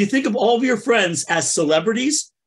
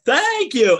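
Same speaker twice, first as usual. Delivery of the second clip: Richard Simmons; 7 semitones higher than usual. Retold or imitated. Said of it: "So Richard Simmons is like".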